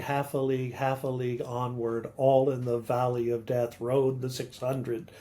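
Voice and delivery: "half a league" in rolling threes, HALF stressed each time; dactylic meter. Shown as a demonstration. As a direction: recite "half a league onward" as steady strong-weak-weak beats. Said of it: "is written in dactyls".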